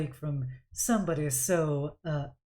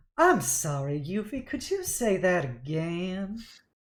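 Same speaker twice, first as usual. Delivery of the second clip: slow, sing-song voice; 2 semitones higher than usual. Voicing the mother who stops the band and questions Yuffie. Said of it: "and she goes".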